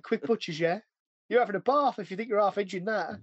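rough imitation of Cockney banter; butchered Cockney. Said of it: "butchering American and fucking Cockney".

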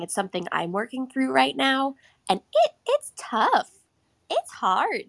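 talking through real tears; crying. Real, not acted. Guest thanking the host while really crying. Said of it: "because I'm crying".

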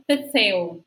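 TETEO with th sounds for both consonants; interdental ceceo. Shown as a demonstration. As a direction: say "teteo" with tongue tip between the teeth. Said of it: "a pronúncia, né, pra mim é muito difícil".

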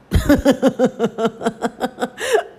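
a high, cackling villain laugh at herself; evil laugh. Real, not acted. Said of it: "there's my, like, evil laugh".

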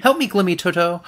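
high, loud mock-tearful plea; fake crying. She begs Glimmy for help, fake crying. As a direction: imitate a put-on wail for help. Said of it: "starts crying to distract him and says".

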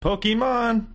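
mock trailer voice saying Pokemon; mock announcer. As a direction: sell the name like a cheesy ad.

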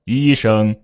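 level tones at everyday pitch; middle key. Shown as a demonstration. Teacher starting a climb in pitch, word in a middle key. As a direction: say both syllables level, unraised. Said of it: "它都是医生".

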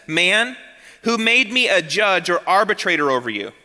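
a firm, sharp rebuke; Jesus rebuking the greedy younger brother. Retold or imitated. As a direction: cut the man off sharply. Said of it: "he does so sharply".

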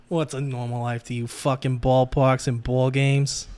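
put-on slow, drawn-out Italian-accented tough guy. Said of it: "Your Italian accent is not bad".

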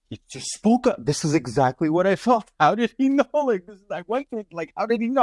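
high-pitched, astonished retelling; amazed disbelief. Retold or imitated. Guest recalling his reaction to the rabbi's show, amazed.

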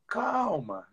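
a soft, soothing calma; soft calm. Shown as a demonstration. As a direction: settle the leader down gently. (calma dita suavemente)

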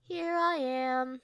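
slow, eerie ghostly voice; low haunting voice. Retold or imitated. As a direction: drawl it like a lurking ghost. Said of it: "a ghostly voice calls out".

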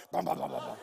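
low, chugging bum-bum engine noise; imitated motorcycle engine. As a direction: mimic a loud bike engine, playfully. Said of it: "Oh, yeah, I made it louder".

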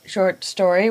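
s sound whistled through teeth; whistling through teeth. Real, not acted. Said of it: "I just whistled through my teeth".

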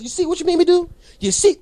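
high mocking scold; hammed-up told-you-so. Reenacting rant at caller.

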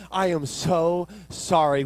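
slow, drawn-out apology, imitating a manager; emphatic apology. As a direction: stretch each word to placate a customer.

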